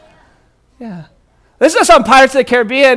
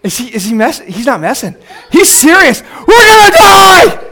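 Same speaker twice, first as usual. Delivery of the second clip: laughing panic; 5 semitones higher than usual. Retold or imitated. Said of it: "And I'm like".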